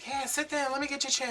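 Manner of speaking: high-pitched, eager neighbour; calling out. Retold or imitated. Neighbour offers her a chair, high-pitched call. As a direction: imitate a neighbour urging a guest to sit.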